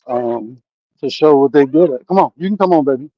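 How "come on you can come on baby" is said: hurrying someone. Real, not acted. Calling to his son on bike.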